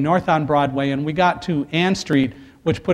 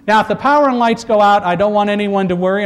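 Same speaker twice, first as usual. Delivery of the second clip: louder, higher calm cabin announcement; flight attendant voice; 4 semitones higher, 4 dB louder than usual. Retold or imitated. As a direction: reassure the crowd like cabin crew. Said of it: "in my best flight attendant voice".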